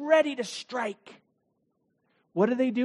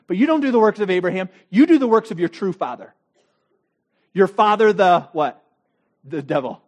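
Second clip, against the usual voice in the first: louder and faster, building; confronting Jesus; 6 dB louder, faster than usual. Acted. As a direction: drive the accusation harder and faster. Jesus confronts leaders in diatribe.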